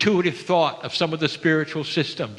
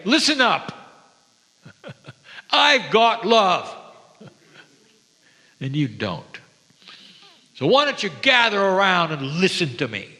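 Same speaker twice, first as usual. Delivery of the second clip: boastful preacher; 4 semitones higher than usual. Pretend. Mocking the master who enters a room to boast, showy. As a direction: puff yourself up like a boastful teacher.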